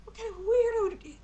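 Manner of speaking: high, fast mocking grumble; grumbling innkeeper. Innkeeper grumbles in the kitchen about the posh boy, high mocking. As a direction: mutter scorn at the weird guest.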